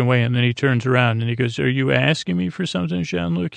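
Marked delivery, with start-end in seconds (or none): 1.6-3.5 higher, quick retold question; imitated coy question. Q turns back to question Picard, imitated coy higher voice. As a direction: lift the voice lightly, imitating Q's question.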